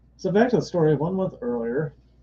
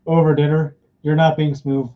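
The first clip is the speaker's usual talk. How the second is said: louder, exasperated rebuff; annoyed brush-off; 5 dB louder than usual. Retold or imitated. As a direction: brush off a smooth talker. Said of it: "Look at that smug grin".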